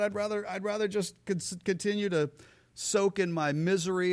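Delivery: a hint of a self-pitying crowd; sulky complaint. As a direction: sulk through it. Voicing the sulking people.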